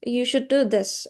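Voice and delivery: "You should do this" settling down on "this"; falling tone. Shown as a demonstration. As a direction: let "this" fall as a statement. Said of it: "a falling tone can be".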